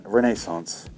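usual speaking voice

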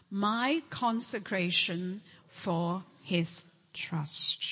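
slow, unvoiced whisper. Shown as a demonstration. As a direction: breathe it out slowly, hushed. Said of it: "One more time".

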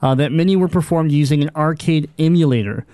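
measured article read-out; steady podcast newsreader delivery; news read. Real, not acted. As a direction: read the gaming news story aloud. Host reads out news article.

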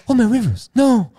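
high, loud wail of grief; anguished cry. Retold or imitated. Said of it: "he goes like".

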